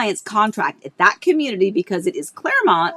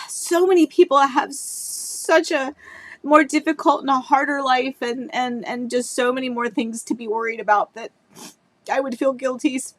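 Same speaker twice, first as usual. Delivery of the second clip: tearful; 3 semitones higher than usual. Real, not acted. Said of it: "So sorry".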